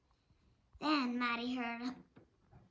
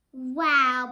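a loud startled wow; surprised wow; 12 dB louder than usual. Acted. Maddie noticing how dirty Boyd is, loud surprise. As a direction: react big to a smelly dog.

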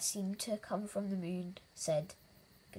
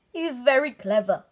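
loud, higher elephant voice; amused elephant; 4 semitones higher, 11 dB louder than usual. A narrator's reading. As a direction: say it loudly, tickled by the trick. Giggling elephant comments.

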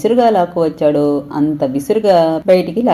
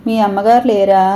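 అమ్మగారు pressed hard, voice higher; stress on అమ్మగారు; 4 semitones higher than usual. A narrator's reading. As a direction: lean pointedly on అమ్మగారు. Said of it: "అమ్మగారన్న పదం ఒత్తి పలుకుతూ".

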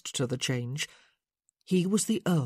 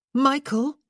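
slightly louder call; 9 semitones higher, 7 dB louder than usual. A narrator's reading. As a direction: call the name a bit louder, Michael? pitched up and carried. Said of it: "she called again, only slightly louder".

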